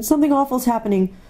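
high, quick, stammering fear; scared child afraid to look; frightened girl. A narrator's reading. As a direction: rush it out, high and nervous. Frightened Susan in the story.

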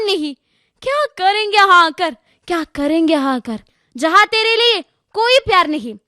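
recited sorrow, high openings falling away; tearful lament. Acted. Mother lamenting to her unborn daughter, mildly tearful declamation. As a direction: lament in verse, a touch tearful. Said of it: "भरकर आंखों में आंसू का मोती कहा".

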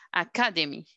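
"Academy" with the stress on "ca", then falling away; stress on second syllable. Shown as a demonstration. Teacher modelling the marked syllable for students, "Academy" stressed on "ca". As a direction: lean on the "ca" of "Academy". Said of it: "está el cuadrito encima de K".

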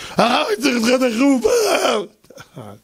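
a panicked man interrupting the lesson; urgent plea. Retold or imitated. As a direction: burst in calling for the rabbi. Frantic visitor bursts into class.

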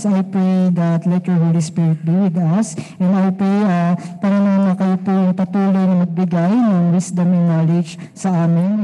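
steady, even praying voice; earnest prayer. Real, not acted. Youth leader praying over the afternoon fellowship, earnest and steady. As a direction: lead the group in heartfelt prayer.

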